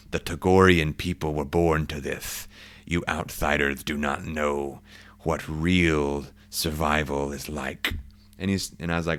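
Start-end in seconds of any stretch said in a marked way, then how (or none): 0.1-7.9 slow, proud Togorian warrior voice; proud alien guide. Acted. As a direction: lean into it like a boastful alien guide. Guide boasting of Togorian toughness.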